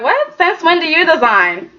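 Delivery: a high, startled what; shocked what. Retold or imitated. The family reacting to Thomas wanting to design, in shock. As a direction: jump up in disbelief at the news. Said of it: "they're looking like".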